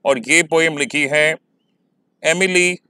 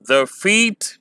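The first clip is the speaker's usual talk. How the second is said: "The feet" with light THE, raised stressed FEET; 4 semitones higher than usual. Shown as a demonstration. Teacher showing students the first iambic foot, stress on "feet". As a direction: lean on "feet", keep "The" unstressed. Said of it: "इसे pronounce करना सीखें".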